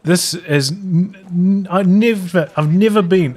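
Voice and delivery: slow, high, tongue-tied stammer; too angry to finish a sentence; sputtering with anger. Real, not acted. Caster too angry to get words out, slow high sputter. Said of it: "I can't even talk".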